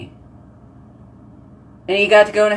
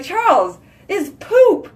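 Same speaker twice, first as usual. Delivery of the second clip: much higher, giggling; laughing quote; 11 semitones higher than usual. Retold or imitated. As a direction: crack up while telling him. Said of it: "I was just laughing".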